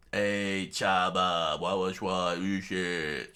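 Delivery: slurred, garbled words; straws-in-mouth garble. Acted. Friends inviting Chopper with straws stuffed in, garbled. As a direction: garble it as if talking round straws. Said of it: "with straws in their nose and mouths".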